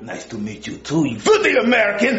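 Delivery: sneering through a laugh; laughing mock politeness; laughing insult. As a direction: greet him with mocking laughter. Mock greeting to enemy cellmate.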